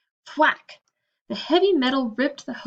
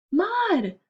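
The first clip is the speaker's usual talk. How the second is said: relieved cry; 9 semitones higher than usual. Acted. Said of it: "cried Olivia with relief".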